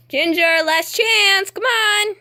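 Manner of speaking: slow, firm last warning; talking to a dog. Real, not acted. Calling the stubborn dog.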